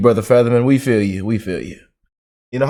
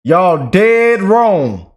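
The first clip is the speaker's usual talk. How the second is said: slow emphatic dismissal; much slower than usual. Real, not acted. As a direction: drag it out, flat certainty. Rebutting critics of Fetterman.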